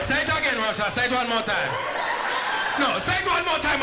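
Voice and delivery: mock angry president. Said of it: "just mad".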